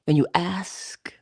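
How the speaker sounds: slow breathy whisper on the first words; hushed whisper. Acted. Speaker drawing listeners in with a slow whisper. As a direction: lean in and whisper it slowly. Emphatic hushed opening line.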